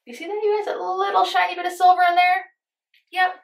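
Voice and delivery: very high, gleeful showing-off voice; high excited coo at the camera; high-pitched excitement. Real, not acted. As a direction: squeal it high, proud of a tiny find. Showing off pan hit on bronzer.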